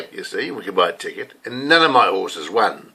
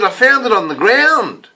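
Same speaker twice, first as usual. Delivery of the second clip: innocent lie; 7 semitones higher than usual. Retold or imitated. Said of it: "I said".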